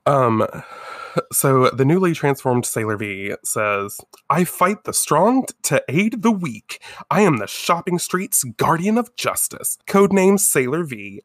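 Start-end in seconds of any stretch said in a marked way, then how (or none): 4.3-11.2 higher-pitched heroic proclamation; a hint of a superhero's catchphrase speech; lightly acted heroine. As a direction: announce yourself like a cartoon champion.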